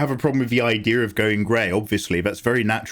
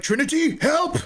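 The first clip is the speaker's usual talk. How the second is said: high, pleading cry for help; damsel cry for help. Retold or imitated. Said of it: "And she's like".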